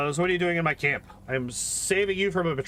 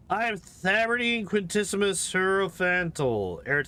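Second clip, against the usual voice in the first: bombast fading to doubt; 2 semitones higher than usual. Acted. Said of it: "For all the bombast at the beginning".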